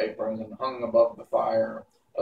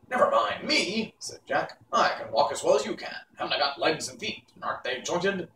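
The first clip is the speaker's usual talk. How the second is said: higher, quick and proud; Pumpkinhead voice; 6 semitones higher than usual. Acted. Jack the Pumpkinhead boasting to witch Mombi, higher and quick. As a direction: boast about his own legs.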